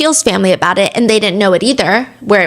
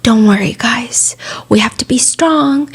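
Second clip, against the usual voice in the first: composed. Retold or imitated. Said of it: "so composed".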